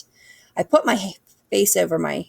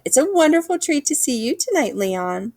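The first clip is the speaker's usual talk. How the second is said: put-on swooning girl; 8 semitones higher than usual. Lovestruck girl clutching heart.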